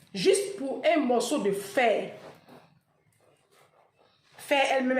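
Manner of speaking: usual speaking voice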